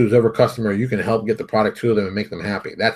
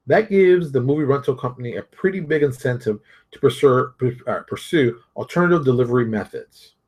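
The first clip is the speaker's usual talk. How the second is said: measured, deliberate article read; reading aloud. Acted. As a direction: read it out like a quoted passage.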